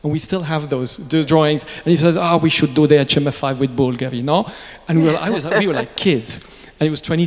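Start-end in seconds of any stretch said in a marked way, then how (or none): 2.2-4.5 loud, imitated Italian accent. Fabrizio proposing a joint watch, imitated Italian accent. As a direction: pitch the idea in a put-on Italian accent. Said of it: "I'm gonna use an Italian accent".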